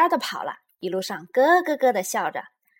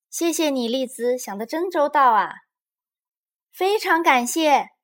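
raised-pitch, louder thanks; grateful; 6 semitones higher, 7 dB louder than usual. A narrator's reading. Mother Bear thanks Lizi for returning the toy, grateful. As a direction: thank them appreciatively.

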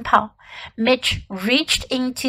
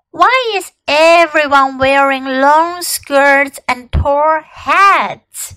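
puzzled question; 2 semitones higher, 5 dB louder, slower than usual. Acted. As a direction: ask it amazed.

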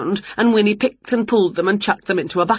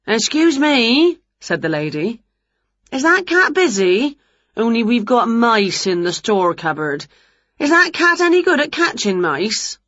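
jolly dinner lady; 4 semitones higher than usual. Acted.

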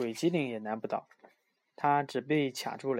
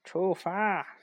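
higher shouted "go!"; shouted command; 6 semitones higher than usual. Acted. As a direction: call out to start. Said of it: "鬼机灵吆喝一声".

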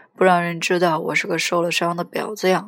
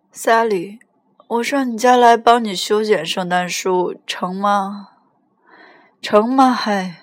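put-on mildly drunk, insistent asking; raised, eager drunk phone voice; drunken pleading; 3 semitones higher, 4 dB louder than usual. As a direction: press her for a yes, tipsily. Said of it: "你喝醉了".

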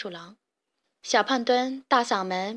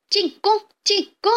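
high, loud chanted war cry; battle cry; 9 semitones higher, 5 dB louder than usual. A narrator's reading. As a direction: echo the chief like a gang. Weasels shout to attack again.

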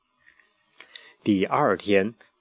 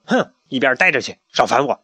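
dismissive; 3 dB louder than usual. Acted. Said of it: "懒得搭理大嗓门".

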